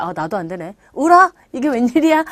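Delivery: muttered realisation jumping to a startled exclamation; mock surprise. Voicing learners amazed at their own failure, mock surprise. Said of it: "라고 놀라시는 분들".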